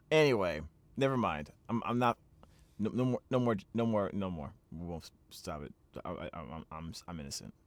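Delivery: low mumble trailing away to very soft; sheepish retreat. Real, not acted. Player withdrawing a crude remark, sheepish and fading.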